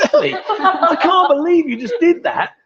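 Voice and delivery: laughing in disbelief. Real, not acted. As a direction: giggle through the words. Caught looking at belly.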